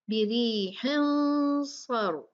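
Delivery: बिरीहिन with a heavy nasal, सर with a heavy r; correct reading. Shown as a demonstration. Teacher gives the right reading after the wrong one. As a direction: read बिरीहिन सर thickly. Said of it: "क्या होगा?".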